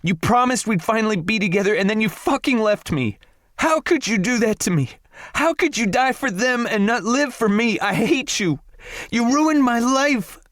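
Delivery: screaming. A narrator's reading. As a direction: scream it up high through hurt. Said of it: "Morgan's voice was turning hoarse from screaming".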